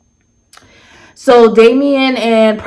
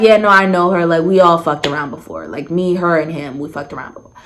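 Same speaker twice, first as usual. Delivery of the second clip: casual retold confession, sinking lower; imitating blatant admission; 4 semitones lower, faster than usual. Woman confirming the threesome history, blatantly casual. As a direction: admit it offhand, voice dropping away. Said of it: "she said it blatantly out loud".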